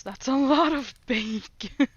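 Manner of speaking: mock deadpan. Quoting her own thought, amused.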